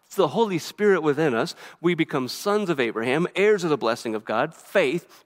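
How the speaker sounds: brisk, unbroken run of short phrases; rapid-fire list. Real, not acted. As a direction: rattle off the blessings without stopping. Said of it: "Why are you talking so fast?".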